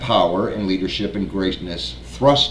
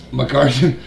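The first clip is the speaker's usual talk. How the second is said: laughing while reading; 2 semitones higher than usual. Real, not acted. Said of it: "I just can't help it".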